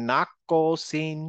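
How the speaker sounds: "নাক কসিন" with a bouncing ক; qalqalah echo. Shown as a demonstration. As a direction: draw out "নাক কসিন", ক echoing into a short vowel. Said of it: "নাক না বলে".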